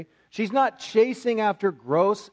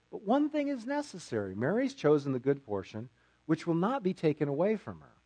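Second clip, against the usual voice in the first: gentle reading; 3 semitones lower, 4 dB quieter than usual. Acted. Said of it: "That's a very gentle response".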